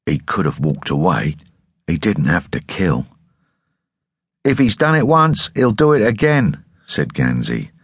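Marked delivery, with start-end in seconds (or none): 0.0-3.1 through clenched teeth; gritted teeth. Acted. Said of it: "spoke through gritted teeth". 4.4-6.6 pitched-up urgent warning. Acted. Gansey warns urgently.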